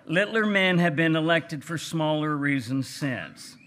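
a lightly put-on Texas gentleman accent; J. Frank Dobie's Texas voice. Reading Dobie's essay aloud to the audience, in a light Texas gentleman accent. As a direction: read it like a genteel old Texan rancher with a light Texas accent. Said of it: "in my best Texas gentleman voice".

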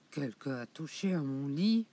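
low grumbling big bear voice; growling big bear. Acted. Le grand ours grogne devant son lit, voix grave. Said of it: "grogne de sa grosse voix".

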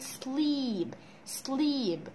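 SLEEP with a drawn-out ee; long vowel. Shown as a demonstration. Teacher modelling the double E, long ee in sleep. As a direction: stretch the ee in sleep slowly. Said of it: "عملوا لي برضو صوت طويل".

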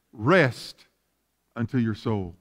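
quiet, tender end to the verse; hushed close. Acted. Ending the scripture quote softly.

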